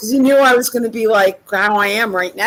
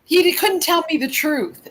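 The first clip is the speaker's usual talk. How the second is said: upset near tears; 5 semitones higher than usual. Real, not acted. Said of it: "I'm really pissed".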